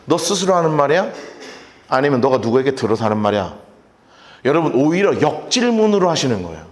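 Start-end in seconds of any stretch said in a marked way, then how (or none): 0.0-3.5 composed, confident counter-question; 당당하게. Acted. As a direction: ask it back like a king who isn't intimidated. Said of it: "이렇게 당당하게 말씀하시죠". (당당하게 되묻는 말투)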